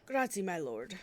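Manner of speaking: put-on a light Italian accent on the thanks. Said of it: "Maybe it's Italian".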